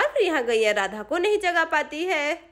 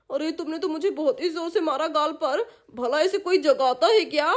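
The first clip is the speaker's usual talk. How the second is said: groggy annoyed uncle; 3 semitones lower than usual. Acted. Uncle slapped awake.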